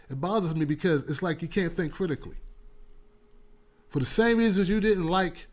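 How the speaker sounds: ordinary talk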